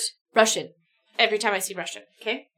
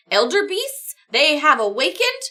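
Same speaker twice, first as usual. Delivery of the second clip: alarmed; 4 semitones higher, 5 dB louder than usual. Acted. Sam relays horror news.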